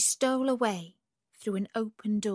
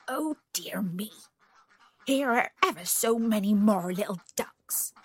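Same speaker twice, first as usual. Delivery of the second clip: annoyed duck; 3 semitones higher, 4 dB louder than usual. A narrator's reading. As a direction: huff indignantly as a put-out duck, building toward the threat. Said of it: "feeling annoyed, and one duck in particular said".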